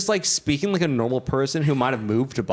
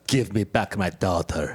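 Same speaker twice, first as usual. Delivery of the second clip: low, hammy Russian accent; Russian-accented movie line, pitched well down; 9 semitones lower than usual. Shown as a demonstration. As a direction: growl it lower in a mock Russian accent. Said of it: "in, in a Russian accent".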